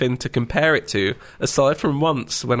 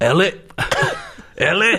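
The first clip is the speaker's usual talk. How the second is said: put-on Swedish-accented newsreader voice; 5 semitones higher than usual. Imagining him cast as Joel and saying Ellie's name, in a Charlie Hunnam accent. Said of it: "Now imagine that saying".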